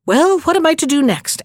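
put-on the magic head asking the old woman what next, cheerfully. A narrator's reading. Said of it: "asked the head cheerfully".

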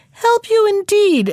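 high, drawn-out mock disbelief; indignant, high and stretched out; scornful refusal. A narrator's reading. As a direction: scoff it slowly, pitched right up. Half-chick scornfully refuses a plea.

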